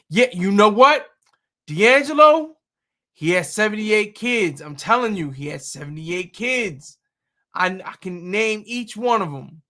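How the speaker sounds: mock-insistent gossip, loud at the start; joking impression of someone making wild claims; a singer. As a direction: insist on it as a put-on. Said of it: "that's what a singer would say".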